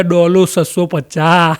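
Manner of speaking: drawn-out, deliberate punchline; child solemnly naming the medicine; slow announcement. Acted. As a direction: spell out each word slowly. Child announcing answer slowly.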